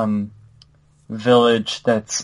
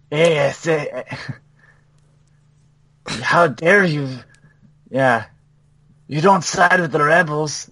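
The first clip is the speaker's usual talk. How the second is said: hammed-up Hispanic accent, slow on how dare you; mock Hispanic accent; 3 semitones higher, slower than usual. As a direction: parody a villain with an exaggerated Hispanic accent. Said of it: "in a somewhat racist accent".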